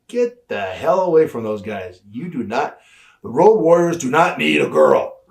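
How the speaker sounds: imitating a boss's emphatic telling-off; mock stern command, rising in pitch and force; retold angry order. Retells boss angrily ordering her away.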